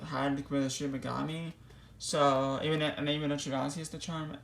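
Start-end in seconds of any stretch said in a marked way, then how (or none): 2.0-4.4 breathless after long talking; short of air, winded; out of breath. Real, not acted. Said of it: "boy, I'm out of breath".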